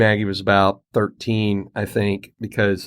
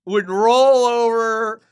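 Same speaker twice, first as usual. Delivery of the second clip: amused teasing; 9 semitones higher, slower than usual. Real, not acted. Teasing friend about dog.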